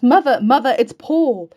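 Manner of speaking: high, loud calls up the stairs; excited shout. A narrator's reading. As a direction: shout the news through the house. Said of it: "and shouts".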